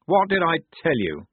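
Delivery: mildly gloating, pleased to be proved right; triumphant. A narrator's reading. Blouse crows to Polly about his success, triumphant. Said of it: "said Blouse triumphantly".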